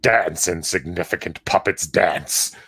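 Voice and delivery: low, menacing villain line; supervillain voice. Retold or imitated. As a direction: sneer it like a mad genius. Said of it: "supervillain laugh".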